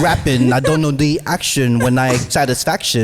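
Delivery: rapping in a put-on British accent; British-accented freestyle. Real, not acted. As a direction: switch into a comic British accent. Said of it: "Mr. British. Fully went British".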